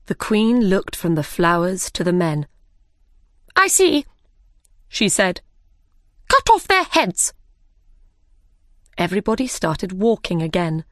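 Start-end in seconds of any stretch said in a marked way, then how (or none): 3.6-4.1 high, curt queenly reply; imperious Queen. A narrator's reading. Furious Queen before passing sentence. 6.3-7.3 high, sharp death sentence; imperious Queen's order. A narrator's reading.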